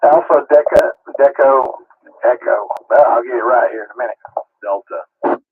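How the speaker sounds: talking through a mouthful of food; eating and talking at once; chewing while talking. Real, not acted. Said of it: "trying to eat and talk at the same time".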